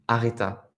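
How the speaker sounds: The name as "a-ré-ta", French r, hard t; French pronunciation. Shown as a demonstration. Teacher repeating the singer's first name, French pronunciation. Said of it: "va prononcer ça à la française".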